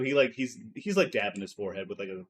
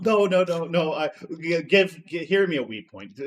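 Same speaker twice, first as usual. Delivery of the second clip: excited protest; 7 semitones higher, 10 dB louder than usual. Real, not acted. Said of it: "calling for a point, excited".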